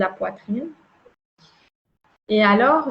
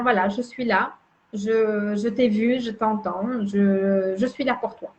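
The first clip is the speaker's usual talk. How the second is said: reassuring; 3 dB quieter than usual. Shown as a demonstration. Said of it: "de rassurer mon être intérieur".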